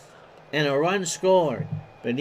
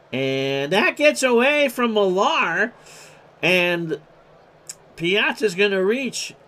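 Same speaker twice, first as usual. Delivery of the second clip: sudden excitement; 4 semitones higher, 4 dB louder than usual. Real, not acted. Error on the throw.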